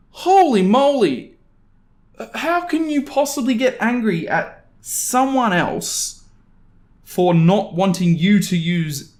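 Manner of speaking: high, slow disbelief; stunned at the neighbor's nerve; incredulous. Real, not acted. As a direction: draw it out, flabbergasted.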